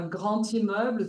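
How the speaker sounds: "grand immeuble" linked as "gran-timmeuble"; French "grand immeuble" with a t linking the words; liaison with T. Shown as a demonstration. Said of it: "the D is pronounced like a T".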